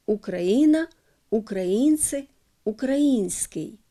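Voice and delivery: Україна, українці, український in Russian, stressed on the ї; Russian words, stress украИна, украИнцы, украИнский; Russian standard pronunciation. Shown as a demonstration. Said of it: "сучасна російська літературна норма". (російська вимова, наголос на ї: Україна, українці, український)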